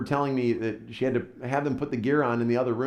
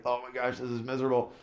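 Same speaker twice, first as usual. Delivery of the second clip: miserable; 7 dB quieter, faster than usual. Retold or imitated. Father in pain, retold.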